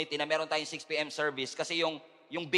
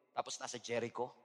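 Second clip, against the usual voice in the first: ordinary delivery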